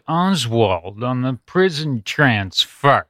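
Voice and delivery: slow, drawn-out comedian impression; Dennis Miller. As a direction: lightly imitate a wry comic's delivery. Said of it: "That's my impression of Dennis Miller".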